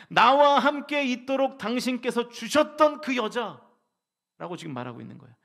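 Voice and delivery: slow, push the words "나와 함께"; stress on 나와 함께. Shown as a demonstration. Pastor shows where the verse's stress falls, slow and emphatic. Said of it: "강세가 여자에게 있지 않고".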